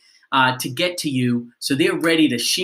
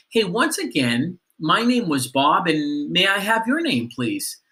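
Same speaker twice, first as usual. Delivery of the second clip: polite; 2 semitones higher than usual. Shown as a demonstration. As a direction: ask nicely, easing off at the end. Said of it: "Just be really polite".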